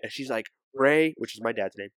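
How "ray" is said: retold mom calling out, a bit frantic; higher, louder call for help, mildly panicked; imitated panic. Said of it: "she's freaking out".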